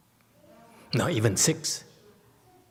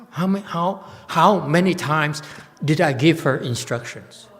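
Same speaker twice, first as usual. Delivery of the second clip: exasperated teacher scolding; 3 semitones higher than usual. Real, not acted. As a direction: press her hard on how many times. Scolding, demanding how often taught.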